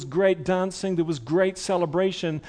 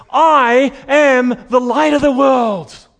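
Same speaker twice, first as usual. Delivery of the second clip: acted-out, loud, shouted proclamation voice; 6 semitones higher, 10 dB louder than usual. Preaching, the speaker retells a proclamation at a great celebration: loud shout. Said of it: "he shouts out with a loud voice".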